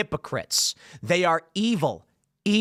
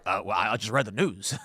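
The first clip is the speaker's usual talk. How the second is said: casual shrug; 8 semitones lower, 4 dB quieter than usual. Retold or imitated. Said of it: "And he's like".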